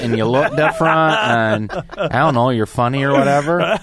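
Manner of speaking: put-on hillbilly accent. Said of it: "hillbillies that you parody in your act".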